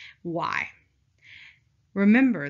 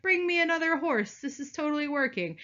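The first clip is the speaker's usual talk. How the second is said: mock general; 7 semitones higher than usual. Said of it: "He's like".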